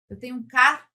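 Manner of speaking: "carro" broken into car and ro; wrongly split syllables. Shown as a demonstration. Teacher showing how nobody says "carro", split car-ro. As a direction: say "carro" in two halves, pause between the r's. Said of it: "Eu não falo assim pra você".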